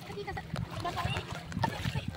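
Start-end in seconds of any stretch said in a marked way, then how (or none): 1.6-2.1 high panicked ay ay ay; alarmed yelps. Real, not acted. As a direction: squeal in alarm at slipping. Slipping on the rocks.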